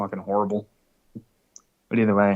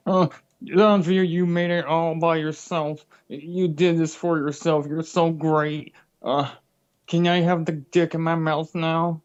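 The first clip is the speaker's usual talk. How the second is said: slow, higher, sucking-up voice; mock fawning; 4 semitones higher, slower than usual. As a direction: gush like a desperate flatterer, slowly. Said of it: "he goes".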